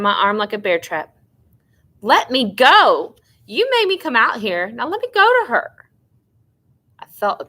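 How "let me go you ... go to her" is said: put-on pleading girl fighting her sister's grip; desperate plea. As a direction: beg to be let go, voice climbing high.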